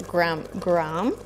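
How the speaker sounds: hesitant, halting "gram, gram"; struggling to pronounce. Real, not acted. Cook unsure of a spice name, struggling. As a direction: stumble over "gram", trying it twice. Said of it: "I'm struggling".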